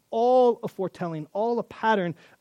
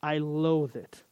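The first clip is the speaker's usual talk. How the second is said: slow, scornful refusal; slow sneering rejection; contemptuous refusal; slower than usual. Retold or imitated. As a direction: reject it slowly with disgust. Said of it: "to say".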